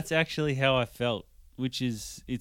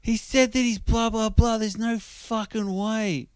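mock drunk girl; 8 semitones higher than usual. Drunk woman telling friends, incredulous.

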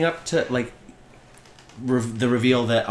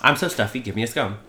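mock English accent. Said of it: "imitates Giles and they just give him English stereotypes".

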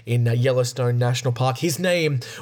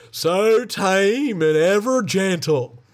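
charmed lady; 5 semitones higher, much slower than usual. Acted. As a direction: gush over the bears like a charmed tourist. Lady from the car gushes.

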